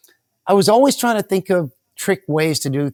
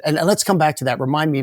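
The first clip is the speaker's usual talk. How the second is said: ordinary talk, nothing marked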